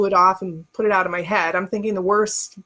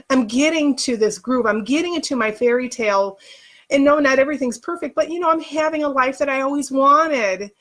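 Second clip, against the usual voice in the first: higher-pitched, tearful protest; anger welling up into tears; on the verge of tears; 3 semitones higher than usual. Real, not acted. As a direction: plead why, fighting back real tears. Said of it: "I didn't mean to cry".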